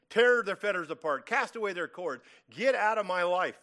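loud, mildly acted demand; imitated defiant demand. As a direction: push it out forcefully, like rebels giving orders. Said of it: "who are demanding".

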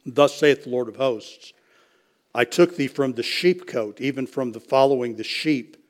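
measured, solemn Bible reading; scripture reading. Acted. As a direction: read the passage with steady dignity. Reads scripture passage aloud.

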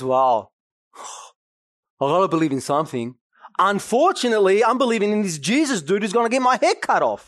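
a lightly voiced grumbling Paul, sighing, rushed; mock Paul. Preacher mocking a half-hearted Paul, sighing and rushed. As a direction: sigh and rush it like a reluctant believer.

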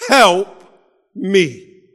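roep het uit om hulp; cry for help. Acted. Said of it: "He cries out".

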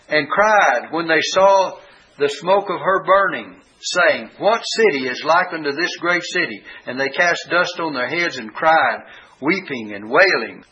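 deliberate, slowed reading with weighted words; emphasizing the words. Shown as a demonstration. Preacher emphasizing the mourning merchants, measured and weighty. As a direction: lean on "cried" and "burning". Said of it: "I'm emphasizing the words".

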